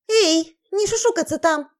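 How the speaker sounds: loud scolding call across the room; sharp shout. Acted. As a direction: bark it at whisperers. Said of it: "прикрикнула Амалия".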